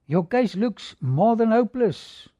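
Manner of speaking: a hint of a court official calling out; stern judge. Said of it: "And looking at the judge".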